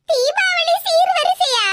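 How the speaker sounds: loud, slow disbelieving echo; shocked echo. Acted. Daughter-in-law shocked at the Diwali gift demand, loud and slow. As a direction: drag it out in shock.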